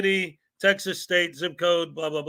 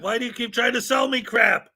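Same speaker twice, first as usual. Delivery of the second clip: annoyed outburst; 5 semitones higher than usual. Real, not acted. Annoyed at Microsoft upsell pop-up.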